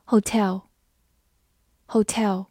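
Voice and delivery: very slow, stretched 'Hotel'; slow model reading. Shown as a demonstration. Teacher modelling 'Hotel' slowly in review. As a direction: draw out 'Hotel' syllable by syllable. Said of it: "复习一下今天学过的单词".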